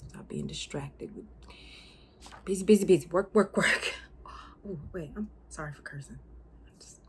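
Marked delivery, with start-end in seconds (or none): 2.4-3.9 mocking busyness. Mimicking relentless distraction of work.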